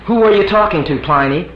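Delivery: a wife asking from the bedroom; wife's voice. Acted. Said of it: "His wife staring".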